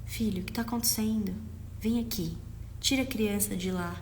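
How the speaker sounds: calm welcoming parent. Shown as a demonstration. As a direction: calmly draw the child over to you. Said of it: "Então você vai acolher essa criança". (mãe acolhendo o filho com calma)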